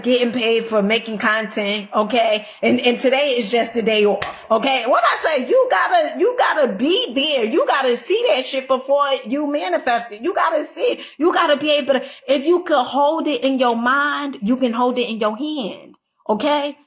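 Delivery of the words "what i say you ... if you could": rising motivational fervour; excited preaching. Real, not acted. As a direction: preach it hard to the camera. Fired up preaching to viewers.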